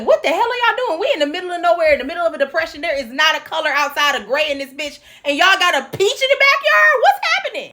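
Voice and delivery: high-pitched mock disbelief; hammed-up bewildered demand; incredulous outburst. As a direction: play a baffled onlooker, pitch climbing to the end. Acted baffled onlookers at the peach.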